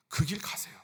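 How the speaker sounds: a hushed, earnest nudge; whispered urging. Real, not acted. Preacher whispering to the congregation to walk their path.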